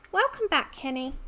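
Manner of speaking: bright lifted welcome; excited greeting. Real, not acted. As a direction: cheerfully welcome them back. Greeting a returning viewer.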